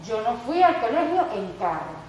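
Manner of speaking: usual speaking voice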